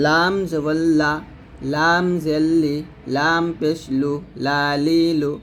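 slow spelling chant, light l in "লা", "লি", "লু"; thin light lam. Shown as a demonstration. Teacher showing how lam is said thinly, slow and measured. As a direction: draw out "লাম", keep the l of "লা" thin. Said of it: "লামটা অবশ্যই পাতলা করে উচ্চারণ করবেন".

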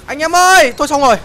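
calling out to teammates. Real, not acted.

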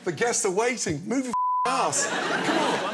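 kitchen chef yell. Acted. Gordon urging the host to hurry, loud chef bark.

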